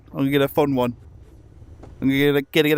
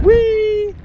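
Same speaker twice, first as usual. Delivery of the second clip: excited whee; 4 dB louder than usual. Real, not acted. Flying off again.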